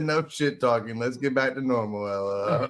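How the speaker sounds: quietly reading a message. Retold or imitated. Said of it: "He said".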